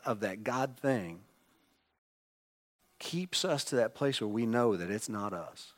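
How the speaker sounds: usual speaking voice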